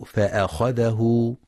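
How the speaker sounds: فأخذه with the hamza emphasized heavy; wrong heavy hamza. Shown as a demonstration. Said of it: "يخطئ من يقرأ".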